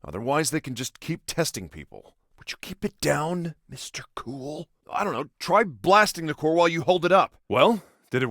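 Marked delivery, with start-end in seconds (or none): 2.4-4.7 soft, dropping away at the end; hushed reproach. Acted. Brother telling Mister Cool to keep it down, hushed reproach.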